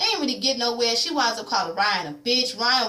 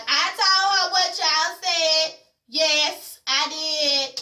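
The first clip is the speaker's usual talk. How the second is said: defiant admission; 5 semitones higher, much slower than usual. Retold or imitated. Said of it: "Danielle was like".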